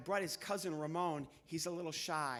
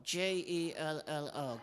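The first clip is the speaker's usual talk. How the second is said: slow spelling; 2 semitones lower, slower than usual. Acted. Puppet spells it Spanish way.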